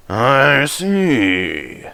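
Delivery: controller. Acted.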